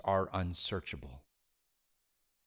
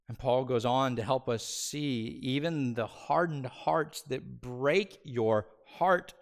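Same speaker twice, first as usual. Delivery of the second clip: ordinary delivery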